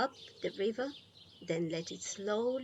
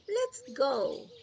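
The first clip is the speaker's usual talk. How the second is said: brisk Grandma, higher and louder; Grandma cutting in; 6 semitones higher, 6 dB louder than usual. Acted. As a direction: cut in with a lively lift. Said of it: "Grandma interrupted".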